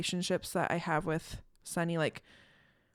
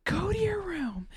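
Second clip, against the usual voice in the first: put-on high sharp call to a child, slow on the room; snapping at the daughter to go to her room; retold yell; 12 semitones higher, slower than usual. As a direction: mom yelling at her little girl. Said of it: "And I just yell".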